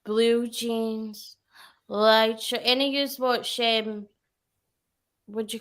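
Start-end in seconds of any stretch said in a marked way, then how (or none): 0.0-2.6 lightly imitated doll, words drawn out; a hint of a droning TikTok doll; deep doll voice. Quoting a TikTok doll to a friend, lightly put-on deep voice. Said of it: "a deep voice".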